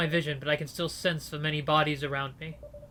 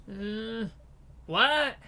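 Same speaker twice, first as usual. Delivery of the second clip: high, startled prisoner's "what?"; a prisoner thrown by the order to dig; 6 semitones higher than usual. Acted. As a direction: blurt it out, confused.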